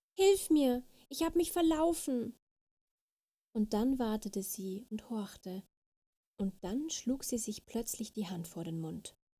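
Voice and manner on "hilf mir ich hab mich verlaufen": high-pitched, begging, pleading shout. Reading a story, the little fairy calls out to the deer, shouting. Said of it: "schrie die kleine Fee".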